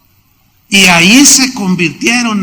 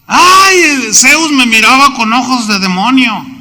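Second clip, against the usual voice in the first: mock terrified cry; 5 semitones higher than usual. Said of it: "No dijo".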